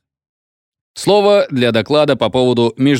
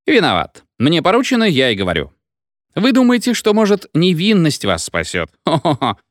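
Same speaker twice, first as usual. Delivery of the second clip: put-on drunk feldsher, carried away; 8 semitones higher than usual. A narrator's reading.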